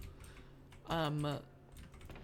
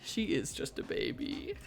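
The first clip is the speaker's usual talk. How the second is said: whispered; 6 semitones higher than usual. Real, not acted. Repeats line about the cat.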